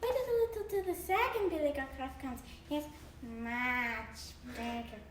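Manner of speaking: small goat talking the troll round; little goat voice. Acted. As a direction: coax the troll to wait. Tiny goat still pleading.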